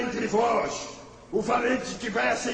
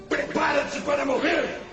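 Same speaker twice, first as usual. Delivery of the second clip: threatening shout; 3 semitones higher than usual. Acted. Gigante ameaça Davi.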